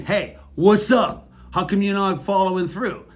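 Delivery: mock demanding, pushy; confrontational demand. Shown as a demonstration. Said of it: "rather than me saying".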